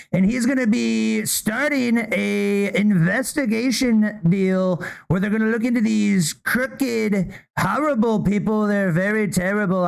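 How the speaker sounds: a hint of Trump hyping up folks at a press briefing; Trump impression. Host imitating Trump telling everybody at a press briefing, lightly voiced. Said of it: "I would have said".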